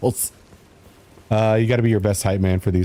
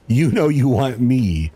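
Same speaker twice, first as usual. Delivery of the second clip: sleazy creep; 3 semitones higher than usual. Retold or imitated. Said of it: "it's like".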